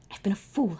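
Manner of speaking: breathy self-reproach, hushed; whisper. Acted. Pharaoh whispering to himself in realization.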